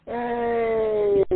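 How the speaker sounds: delighted high call of relief; excited greeting. Real, not acted. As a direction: greet him like a rescuer. Guest finally turns up.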